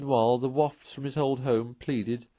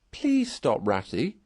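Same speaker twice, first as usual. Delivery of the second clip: anguished plea; 2 semitones higher, 4 dB louder, slower than usual. Acted. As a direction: beg your friend to stop, heart aching. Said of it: "pleaded the poor Mole in anguish of heart".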